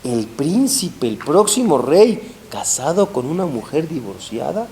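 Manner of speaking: scandalized king. Retold or imitated. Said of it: "Y le decía al rey".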